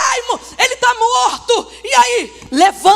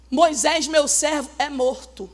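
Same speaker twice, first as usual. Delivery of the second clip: lower, softer solemn voice of God; a hint of a grave divine voice; 7 semitones lower, 7 dB quieter than usual. God telling Joshua Moses is dead, solemn low.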